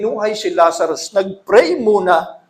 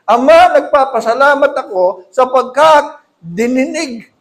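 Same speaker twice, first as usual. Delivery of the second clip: prayer of thanks; 3 semitones higher, 3 dB louder than usual. Acted. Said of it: "Hindi, eh".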